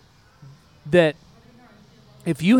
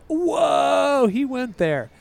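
mock gasp; 9 semitones higher, much slower than usual. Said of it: "And it's like".

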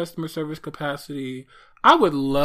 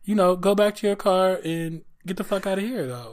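loud, high, mock-furious telling off; mock angry clerk; 5 semitones higher, 3 dB louder than usual. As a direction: tell her off, hammed-up and fierce. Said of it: "what would you have said?".

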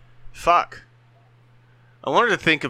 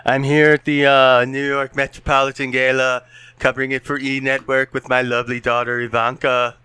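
Donald Trump; 4 dB louder than usual. Pretend. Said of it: "as an impression".

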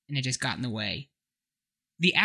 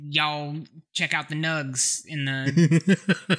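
put-on Texan accent; much slower than usual. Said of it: "Texan y'all".

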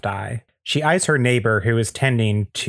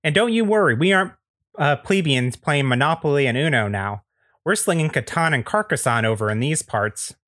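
high, folksy neighbor patter; Andy Daly; 4 semitones higher than usual. Acted. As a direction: boast like a chummy small-town neighbor. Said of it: "is played by Andy Daly".

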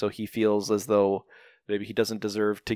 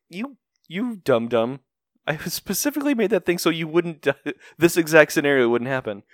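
lightly acted scolding, pitched up; All Might; 5 semitones higher than usual. All Might scolding collapsed trainee, mildly exasperated. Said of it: "All Might's like".

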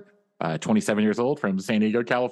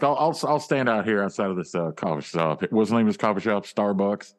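easygoing Southern drawl like a famous singer's. Acted. Waiting outside the coffee shop, a drawl like a famous singer's. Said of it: "you don't have a drawl".

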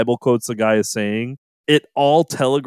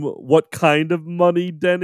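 imitated film line; 5 semitones higher than usual. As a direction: drag out the question in imitation. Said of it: "the line delivery is along the same lines".

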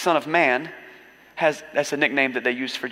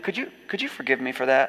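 hushed apology; 3 semitones lower, 6 dB quieter than usual. Pretend. Pretend apology to a grocery bagger.

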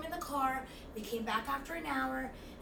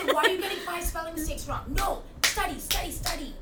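mock nagging; 5 semitones higher, 6 dB louder than usual. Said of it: "I was like that".

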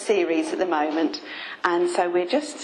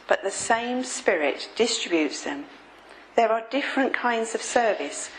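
scripture reading. Real, not acted. Reads base scripture aloud.

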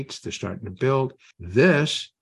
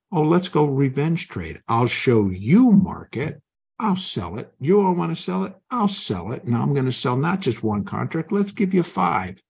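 revenge trade bluster; 4 semitones higher than usual. Retold or imitated. Trader talking back to the market in mock defiance. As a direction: spit it at the market like a sore loser.

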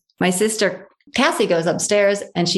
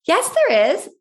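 put-on higher, stubborn little child; insistent toddler; 9 semitones higher than usual.

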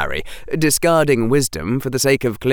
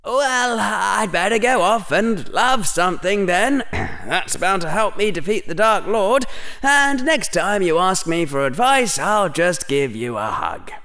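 put-on higher, brisk boyish Harry with sarcasm; young Harry voice; 9 semitones higher than usual. Harry answering the headmaster, higher and sarcastic. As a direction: voice Harry as a cheeky boy.

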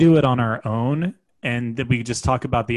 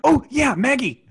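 talking to a dog; 13 semitones higher, 4 dB louder than usual. Real, not acted. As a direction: coo at the dog, way up high. Calling the dog Maggie.

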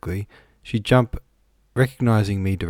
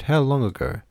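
higher-pitched astonished question; 6 semitones higher than usual. A narrator's reading. Visitor asking the housekeeper about the death, astonished. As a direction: press for the answer in surprise.

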